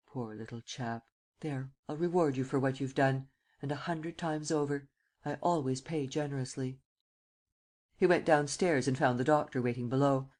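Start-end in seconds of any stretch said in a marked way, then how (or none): 0.1-6.8 much softer, tender words; gently. Acted. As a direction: soothe the fainted lad quietly. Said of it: "said gently".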